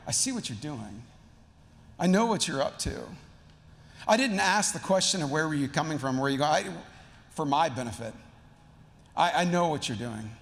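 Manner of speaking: knowing confrontation. Acted. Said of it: "it's like him going".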